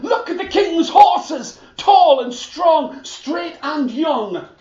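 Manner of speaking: high, loud, delighted cheering with laughter, slowing; cheering crowd. Acted. The crowd cheers the king's horses, high and loud. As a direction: celebrate.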